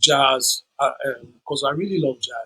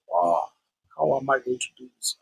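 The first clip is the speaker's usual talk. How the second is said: a touch of the night he cried; tearful despair; 3 dB quieter than usual. Retold or imitated. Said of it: "I cried that night".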